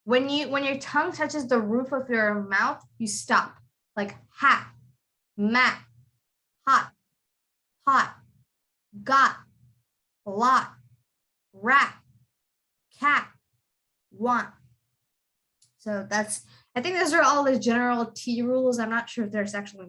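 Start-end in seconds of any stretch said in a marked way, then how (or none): 4.0-14.5 each word ending in a held, unreleased T; stopped final T list. Shown as a demonstration. Teacher reads hat, mat, hot and more, stopping each final T. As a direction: read the list slowly, stopping every final T. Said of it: "when you have T and it's at the end of a word".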